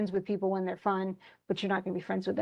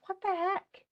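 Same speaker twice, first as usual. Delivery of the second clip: much higher, disbelieving what the heck; incredulous; 10 semitones higher, 3 dB quieter than usual. Retold or imitated. Teacher voicing Everyman stunned that his friend would only kill for him, incredulous. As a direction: squeak it out in shock.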